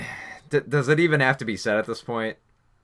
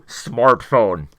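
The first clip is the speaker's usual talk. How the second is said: word crudely dropped in, louder; mock ADR dub; 6 dB louder than usual. Mimicking the film's dubbed dialogue, mock ADR insert. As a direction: imitate a badly dubbed-in word. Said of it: "they A D R in, uh, the word smartphone".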